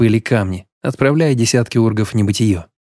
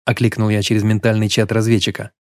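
ordinary delivery

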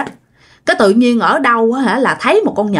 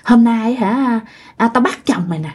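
cợt nhả, nham nhở. Retold or imitated. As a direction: tease gleefully, imitating a leering ghost. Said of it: "vừa cười nham nhở, nó vừa nói". (giọng nhái nham nhở, trêu ngươi)

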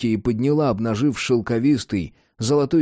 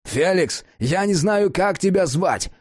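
shout; 8 semitones higher, slower than usual. A narrator's reading. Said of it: "заорал Джек".

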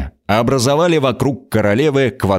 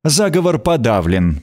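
harsh. Acted. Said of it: "произнесла она жёстко".

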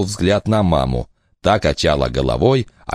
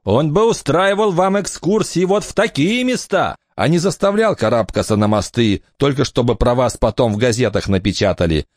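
higher, lively woman's voice; mother's voice; 9 semitones higher than usual. Acted. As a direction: speak up bright as the mother. Eleanor speaks to Barnaby.

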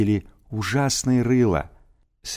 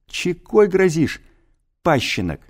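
threatening snarl; 8 semitones higher than usual. Acted. Thug threatens boy.

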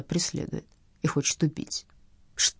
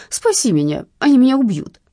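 moaned plea; 6 semitones higher, 7 dB louder than usual. Acted. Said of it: "простонала трубка".

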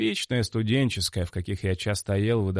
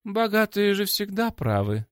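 slow, sarcastic, higher voice; 11 semitones higher than usual. A narrator's reading. Лия backs her brother up, slow and sarcastic. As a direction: drag it out with mock agreement. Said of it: "тем же тоном добавила Лия".

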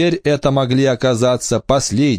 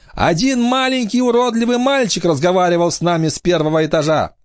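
sneering panto villain; 10 semitones higher than usual. Acted. Pirate captain sneers at Will.

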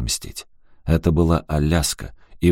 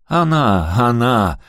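high, forceful accusation; sharp, raised-voice jab; barking; 6 semitones higher, 4 dB louder, slower than usual. A narrator's reading. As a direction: bark it out. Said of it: "рявкнул Робби".

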